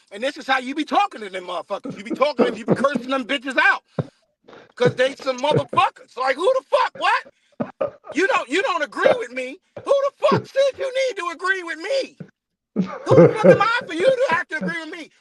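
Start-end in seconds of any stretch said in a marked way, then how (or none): 6.2-15.1 indignant rant. Retold or imitated. Ranting at imagined doubter.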